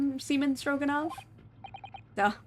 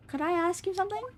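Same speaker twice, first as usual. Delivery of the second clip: companion voice; 7 semitones higher than usual. Acted. Voicing female companion.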